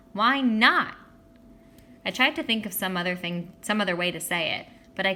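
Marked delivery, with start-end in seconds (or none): 0.1-0.9 loud, high call up the tree. A narrator's reading. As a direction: call it up to him, annoyed. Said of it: "she called".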